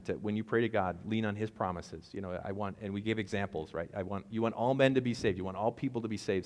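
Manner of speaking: ordinary talk, nothing marked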